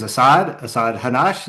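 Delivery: Americanized Asad Hanash; name Asad Hanash with English sounds; Asad Hanash, American pronunciation. Real, not acted. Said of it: "close enough in my American English".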